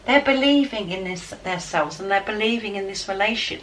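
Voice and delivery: pressing the good news home; excited. Real, not acted. Reader sharing the positive reading, excitedly. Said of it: "but I'm excited".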